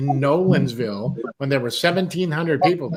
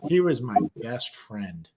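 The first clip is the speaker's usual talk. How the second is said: slow, lower retold confession; grave revelation; 4 semitones lower than usual. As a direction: imitate the man letting it out slowly.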